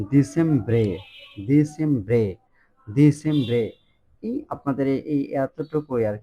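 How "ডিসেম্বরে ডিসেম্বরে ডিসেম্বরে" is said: ডিসেম্বরে as di-CHEM-bre; Italian dicembre. Shown as a demonstration. Teacher drilling Italian December, careful pronunciation. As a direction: drill ডিসেম্বরে three times. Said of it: "এই ডিসেম্বর মাসকে আমরা বলতেছি".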